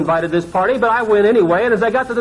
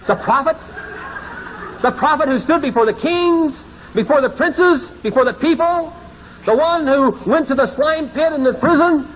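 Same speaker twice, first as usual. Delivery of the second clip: higher, breathless awe; awed excitement; 7 semitones higher than usual. Retold or imitated. Pastor meeting the prophet, higher awed voice. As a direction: marvel at each title.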